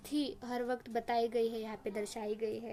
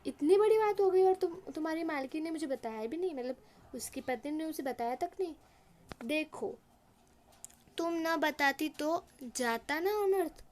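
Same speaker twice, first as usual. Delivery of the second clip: mock astonishment; 4 semitones higher than usual. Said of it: "ऐसे एकदम शौकीन आवाज़ में वो कहता है".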